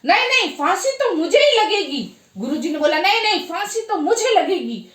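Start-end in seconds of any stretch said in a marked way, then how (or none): 0.0-2.2 mild, higher-pitched mock yell; insistent yelling. Narayan Das demands to be hanged, insistent mock yelling. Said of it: "जोर जोर से चिल्लाने लगा". 3.0-4.9 higher-pitched, eager insistence; insistent. Acted. Guru argues with disciple to be hanged, insistent.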